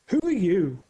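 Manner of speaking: the car asks the stranger, lightly voiced; black car's question. A narrator's reading. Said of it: "asks the black car".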